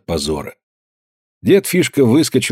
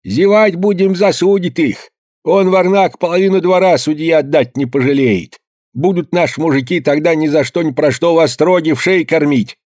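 urgent rallying; 7 semitones higher than usual. A narrator's reading. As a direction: rouse the old men to ride. Old man rallies villagers urgently.

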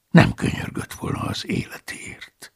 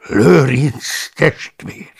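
slow, stunned recognition; astonished; 2 semitones higher, 5 dB louder, much slower than usual. Acted. Paulus recognising the fat cellarius, stunned. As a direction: drag it out in shock. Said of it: "néztem meghökkenve".

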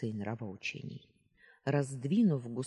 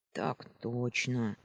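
slow, dejected yes-sir; boy sulkily obeying the sentry; glum reply; slower than usual. Acted. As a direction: answer with no heart in it. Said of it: "уныло отозвался Перети".

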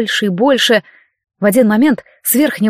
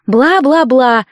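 mocking blah-blah; 3 semitones higher, 3 dB louder, much slower than usual. A narrator's reading. Mocking interruption of pompous speech.

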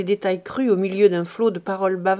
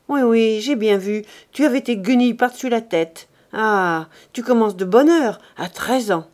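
louder, cutting reproach; sharp rebuke; 6 dB louder than usual. Acted. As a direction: Lazare shames the girl. Lazare cuts off the girl.

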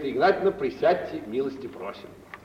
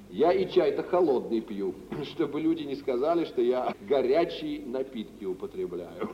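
laughing; 6 semitones lower than usual. Acted. Merchant jokes, laughing.

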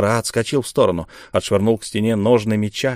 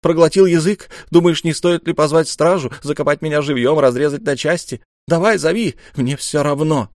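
angry taunt; 6 semitones higher, 4 dB louder than usual. Acted. Ra furiously taunting the ruler.

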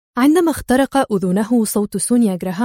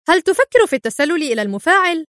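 higher, tense voiced question; nervous question; 6 semitones higher than usual. A narrator's reading. Black nervously asking Adham about sneaking into the reactor. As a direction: ask it on edge, voice lifting up. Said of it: "قال بلاك في عصبية".

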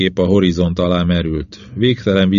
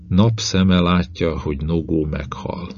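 slow, fading voice of a dying beast; dying companion, barely audible; weak dying creature. Acted. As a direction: let the words drain away, slow. Dying creature speaks weakly.

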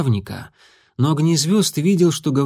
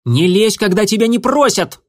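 higher, louder angry cut-off; angry interruption; 9 semitones higher, 5 dB louder than usual. A narrator's reading. A sister snapping at her brother for meddling, angrily. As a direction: snap at him to stay out of it. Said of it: "сердито перебила брата".

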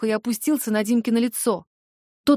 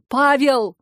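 raised voice on the full name; stern call; 3 semitones higher, 4 dB louder than usual. Acted. Mother stepping into her son's fight, stern call. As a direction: call the son sharply to order.

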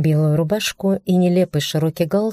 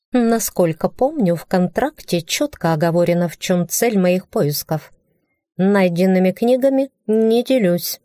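rising anger, sharper at the end; angry. Acted. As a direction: let the anger creep in. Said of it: "в моём голосе появилась злость".

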